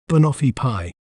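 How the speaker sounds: "banoffee pie" said whole again, clearly, with a falling end; slow clear dictionary pronunciation. Shown as a demonstration. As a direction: rejoin the syllables into "banoffee pie", carefully. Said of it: "We may pronounce it as".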